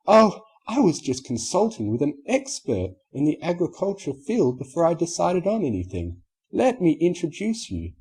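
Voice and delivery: high, smooth society lady; Rarity voice. Acted. Rarity introducing Applejack to the customer, high and polished.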